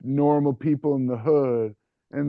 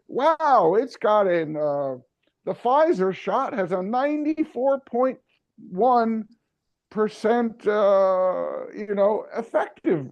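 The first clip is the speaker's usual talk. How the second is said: mock impressed liberal; 5 semitones higher than usual.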